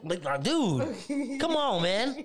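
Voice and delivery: slow, exasperated, rising into a laugh; impatient. Acted. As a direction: drag it out, fed up.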